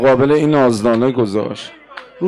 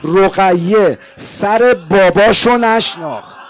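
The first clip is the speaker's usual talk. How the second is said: slow emphasis; 2 semitones higher, slower than usual. Shown as a demonstration.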